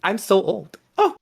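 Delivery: high, rising crone's welcome; delighted old hag. Acted. Old hag welcoming Tidbit into her home, high and sweet.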